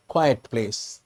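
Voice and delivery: "quiet" said low as two syllables, kwy-et. Shown as a demonstration. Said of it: "not quite".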